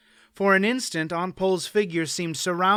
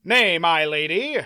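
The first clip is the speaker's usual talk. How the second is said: protesting; 2 semitones higher, 4 dB louder than usual. Acted. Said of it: "Mander Allen protested".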